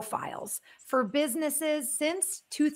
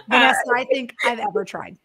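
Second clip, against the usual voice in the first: laughing; 6 dB louder, faster than usual. Real, not acted. Laughing after bad accent.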